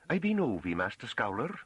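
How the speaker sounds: high, eager farm woman voice; almost gasping. A narrator's reading. Farm woman introduces herself to the master, almost gasping. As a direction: blurt it out high, in rustic dialect. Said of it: "said in what was almost a gasp".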